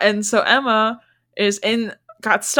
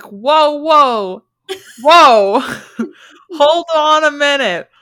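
shocked, louder; 7 semitones higher, 6 dB louder, slower than usual. Retold or imitated. Reacting to "making love.

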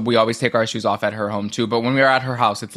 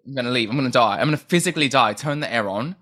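mock British diva complaint; a singer's British accent; faster than usual. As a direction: imitate a melodramatic British-accented star. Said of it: "had the British accent and she was like".

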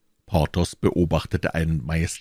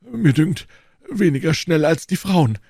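raised, louder voice of an offended lover; indignant character retort; retorting Porthos; 11 semitones higher, 5 dB louder than usual. A narrator's reading. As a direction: throw the reproach back, high and loud.

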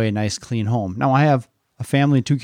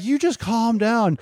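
exasperated parent; 10 semitones higher, slower than usual. Retold or imitated. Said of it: "we're just kinda like".

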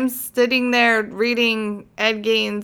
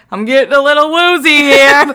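woozy voice; 5 semitones higher, 10 dB louder than usual. Retold or imitated. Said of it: "that's when I was like".

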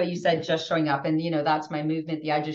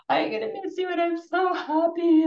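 retold teary outburst; 12 semitones higher than usual. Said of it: "And I'm crying my eyes out".

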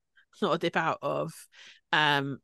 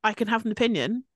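indignant comeback. Retold or imitated. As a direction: bristle and push back. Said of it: "She's like".

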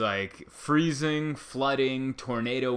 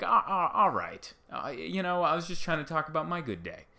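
higher, stammered mock apology; sheepish backpedal; 5 semitones higher than usual. San Diegan caught bragging, stammering a sheepish higher reply. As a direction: play it small and caught out. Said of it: "And you're like".

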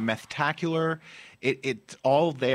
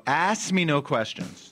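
game show announcer; 4 semitones higher, slower than usual. Acted. Announcing the quiz show title.

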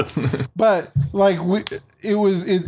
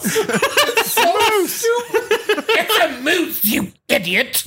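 laughing; 9 semitones higher, slower than usual. Real, not acted. Laughing while mocking the moose line.

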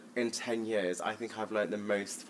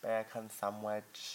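slow, softer mock Jamaican accent; 5 dB quieter, slower than usual. Shown as a demonstration. Friend echoing her co-host's demo, Jamaican accent. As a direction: copy it slowly in a put-on Jamaican accent. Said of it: "you do a Jamaican accent".

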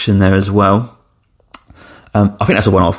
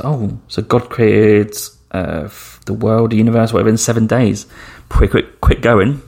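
loosely imitated comedian's routine, dragged start then hurrying on; Ricky Gervais. Reading the Bible's first page aloud, mock comedian style. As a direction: skim a reading like a stand-up bit. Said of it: "So, like, Ricky Gervais style".

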